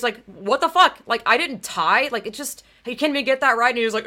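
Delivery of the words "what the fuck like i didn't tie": outraged retort. Retold or imitated. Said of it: "I just remember being outraged".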